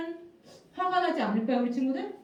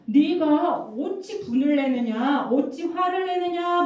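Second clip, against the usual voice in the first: slow, slightly raised questioning voice; God questioning Cain; 2 semitones higher, 4 dB louder, slower than usual. Acted. God confronts Cain about his anger, stern slow questioning. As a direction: ask it slowly, as a stern challenge. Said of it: "물어보시는 거예요, 하나님이 가인에게".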